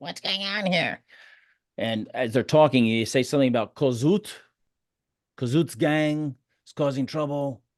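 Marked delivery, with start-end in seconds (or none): 0.0-1.0 annoying, irritating, high-pitched male voice. A game master voices an annoying guy the players overhear, annoying high-pitched voice. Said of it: "that annoying guy with a high pitched voice".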